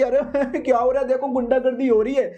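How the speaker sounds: high-pitched mock outrage, playing to onlookers; hammed-up victimhood. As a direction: put on a wronged act for the crowd. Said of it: "तो नाटक करने लगता है". (ऊँचे सुर में पीड़ित होने का नाटक)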